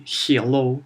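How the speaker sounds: hello said "hyello" with a Y glide; mock Russian "hyello"; Russian-accented hello. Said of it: "when Russians say".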